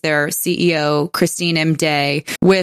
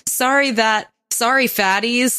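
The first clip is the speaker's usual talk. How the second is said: higher-pitched, flippant non-apology; mock apology; 6 semitones higher than usual. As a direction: toss off a mocking fake apology. Mocking paraphrase of CEO's apology.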